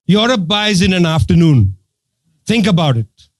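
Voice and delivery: low-pitched, calmly retold punchline. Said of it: "he said very calmly".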